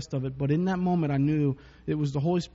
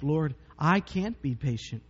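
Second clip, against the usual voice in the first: weary prayer; 3 semitones lower, 4 dB quieter than usual. Retold or imitated. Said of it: "some days it's like".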